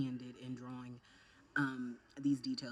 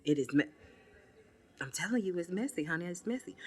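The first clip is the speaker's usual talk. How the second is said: loud complaint; 5 semitones higher, 7 dB louder than usual. Real, not acted. Complaining foundation messy.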